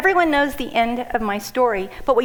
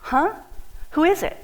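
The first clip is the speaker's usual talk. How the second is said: freaking out; 8 semitones higher than usual. Retold or imitated. Hearing her donor wants to meet her, a high shocked cry. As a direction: jump way up in disbelief. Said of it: "I'm freaking out".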